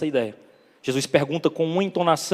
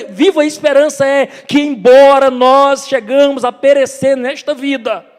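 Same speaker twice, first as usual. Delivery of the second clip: high, loud, ringing sermon delivery; impassioned preacher's crescendo, loud and insistent; full-force preaching; 9 semitones higher, 8 dB louder than usual. Real, not acted. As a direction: drive each phrase home to the congregation.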